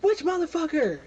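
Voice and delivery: high, loud yelled question; guard yelling back. Acted. Guards shouting across hallway.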